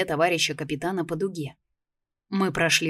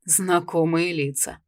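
spat out; slower than usual. Acted. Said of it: "сплюнул он".

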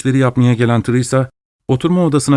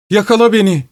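triumphant cry; 10 semitones higher than usual. Acted. Sleepwalking wife crying out in triumph to her husband. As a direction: dare him to catch her. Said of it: "korkunç bir zafer çığlığı atıp".

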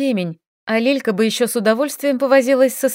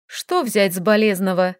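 philosophical. Acted. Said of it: "философски заключила девушка".

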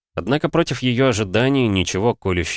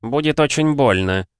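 patient; 7 semitones higher than usual. A narrator's reading. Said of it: "терпеливо повторял чужой чародей".

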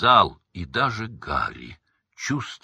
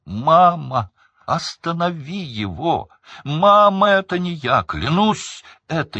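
very high, loud desperate plea; frantic pleading; 10 semitones higher, 8 dB louder than usual. A narrator's reading. Son begging his mother to stop it, frantic. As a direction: beg in panic.

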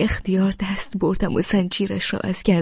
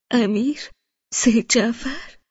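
bewildered question; 4 semitones higher than usual. Acted. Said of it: "با تحیر و گیج گفتم".

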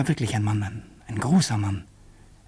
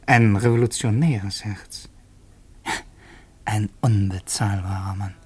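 whispered; 3 semitones lower than usual. A narrator's reading. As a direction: let it out as a secret. Confiding thought about waiter.

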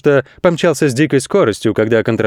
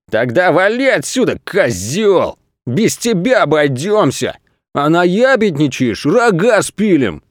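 higher, slow, menacing crook voice; threatening crooks; 5 semitones higher, slower than usual. Acted. Crooks threatening the goat, higher menacing voice. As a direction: threaten to saw off his horns. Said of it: "закричали жулики".

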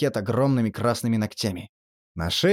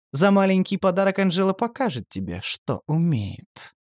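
seductive purr; 3 semitones higher than usual. Acted. Seductive creature tempts narrator.

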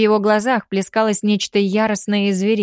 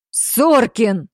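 blurted name; 3 semitones higher than usual. A narrator's reading. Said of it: "вырвалось у Альфы".

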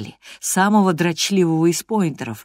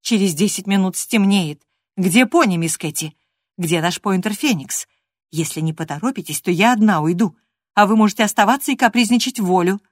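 louder, building reproach; scolding nanny; 4 semitones higher, 4 dB louder than usual. Acted. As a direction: tell the naughty girl off properly. Nurse scolding.

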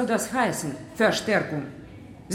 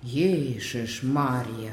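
shocked exclamation; 8 semitones lower, 4 dB quieter, much slower than usual. Acted. Nurse shocked by murder talk.

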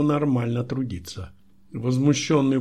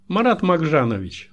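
higher, louder twittering call; lightly acted sing-out, pitched up; chirping secretary; 5 semitones higher, 6 dB louder than usual. A narrator's reading. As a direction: chirp the name like an eager secretary. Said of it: "защебетала секретарша".

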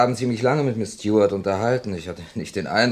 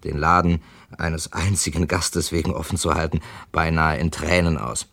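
story narration. A narrator's reading. First-person narration between scenes.

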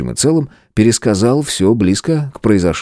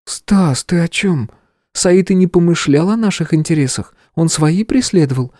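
calm, even female voice; calm explanation; 11 semitones higher than usual. Acted. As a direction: explain it calmly, no fuss. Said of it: "спокойно пояснила Стеша". (спокойно, ровно)

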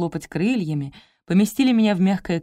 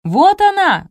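loud, very high treble shout; high-pitched cry; 11 semitones higher, 9 dB louder, slower than usual. A narrator's reading. Salesperson spots the missing customer, high-pitched cry. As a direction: shriek it out in a piping treble. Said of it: "закричал Дисконт".

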